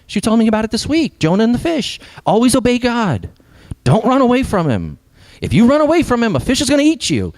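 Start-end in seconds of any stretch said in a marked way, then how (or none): 1.2-7.3 put-on high, lilting kids' story summary; high-pitched mock Sunday-school lesson; children's Bible story retelling. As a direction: retell it like a simple moral tale for children. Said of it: "the narrative usually goes something like this".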